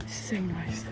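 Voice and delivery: whisper. Real, not acted. Whispered on the run.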